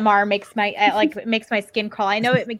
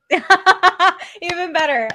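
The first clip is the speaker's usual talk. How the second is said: laughing; 8 semitones higher, 3 dB louder, much slower than usual. Real, not acted. Laughing slow reply.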